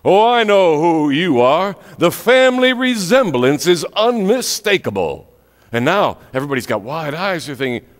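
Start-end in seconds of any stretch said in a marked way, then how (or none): 0.0-5.3 loud, beaming preacher proclamation; booming voice. Retold or imitated. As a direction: announce it proudly to the crowd. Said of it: "in his great big booming voice".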